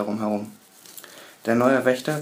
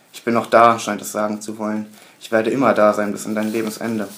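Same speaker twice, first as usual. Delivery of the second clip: gloating; 5 dB louder than usual. Acted. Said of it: "hämisches Grinsen".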